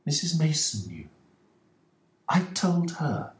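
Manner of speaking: wife's reply. Acted. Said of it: "replied Missus Ferguson".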